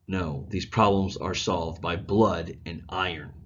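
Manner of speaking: reading aloud. Shown as a demonstration. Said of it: "let me read you a little excerpt from it".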